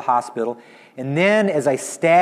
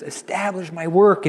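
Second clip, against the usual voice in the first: higher, pleading, as if through tears; tearful; 4 semitones higher than usual. Acted. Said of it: "he says it with tears".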